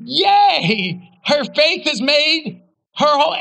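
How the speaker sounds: bright, loud little cheer. Real, not acted. Preacher cheering for the healed woman, excited. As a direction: celebrate out loud.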